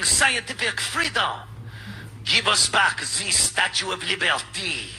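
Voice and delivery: lightly hammed-up French accent; a hint of movie French accent, half-mocking. Host mocking French politician's speech, light French accent. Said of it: "I just do the accent like in movies".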